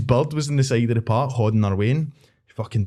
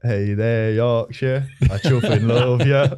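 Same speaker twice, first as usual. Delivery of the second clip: lightly imitated Yorkshire accent; slow finish in a mock Yorkshire voice; slower than usual. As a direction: quote the video in Yorkshire dialect, stretching the last line. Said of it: "In a Yorkshire accent".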